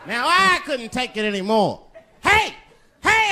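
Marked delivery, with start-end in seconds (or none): 2.2-3.3 high, loud "hey, hey"; hammed-up high retort; mock protest. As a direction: raise the pitch in mock protest. Acting out his own retort.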